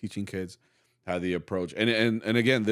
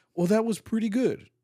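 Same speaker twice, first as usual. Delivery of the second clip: mock gentle, encouraging teacher tone, pitched higher. Retelling how a soft director would correct musicians: imitating a gentle teacher voice. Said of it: "you put on that teacher voice".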